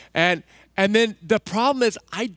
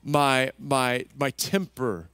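demonstrated prayer; 3 semitones lower than usual. Shown as a demonstration. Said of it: "this is one of the things I do".

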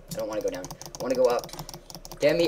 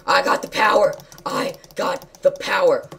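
gloating chant; triumphant; 5 semitones higher, 9 dB louder than usual. Real, not acted. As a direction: crow over the win.

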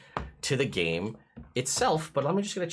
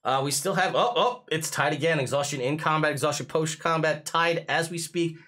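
race announcer; 4 semitones higher than usual. Pretend. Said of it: "start talking like a race announcer".

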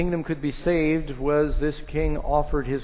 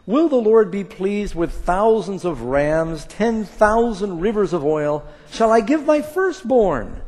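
scripture preached with building force; 4 dB louder than usual. Acted. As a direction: preach the verses, rising in power.

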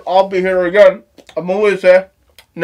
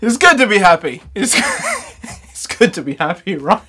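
laughing. Real, not acted. Giggling fit during outro.

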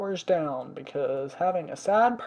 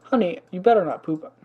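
warning the dog; 6 dB louder than usual. Real, not acted.

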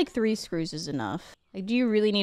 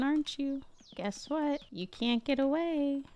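villain taunt; 3 dB quieter than usual. Pretend. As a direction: taunt the screw like a movie villain. Taunting a hidden screw.

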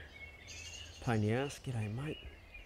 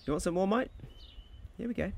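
high coaxing pet voice; 9 semitones higher than usual. Real, not acted. Man coaxing a wild weka to eat possum, high coaxing voice. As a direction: coax the bird in like a pet.

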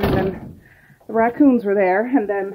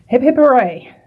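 cheering; 4 semitones higher, 9 dB louder than usual. Real, not acted. Cheering that garbage is gone.

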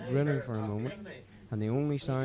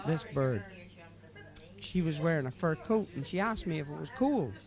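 put-on higher-pitched drunken friend preaching life advice; drunk mate Paddy; 4 semitones higher than usual. Drunk driver lecturing his passenger about responsibility, higher voice. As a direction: lay out your drunken philosophy earnestly.

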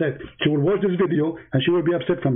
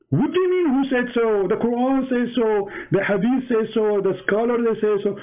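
"who said so?" thrown back high and indignant; disbelief, pitch leaping up; incredulous retort; 6 semitones higher than usual. Real, not acted. Answering the debater's question, high and incredulous.

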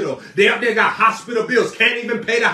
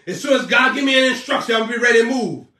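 mock lazy believer; faster than usual. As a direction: mimic a complacent churchgoer. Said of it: "That's how you gonna live your whole life?".

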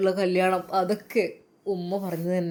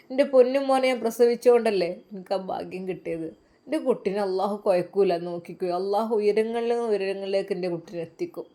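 a touch of a loving, grateful mother; lightly voiced proud mother. Mother thanks God for her righteous son, mildly acted fond pride.

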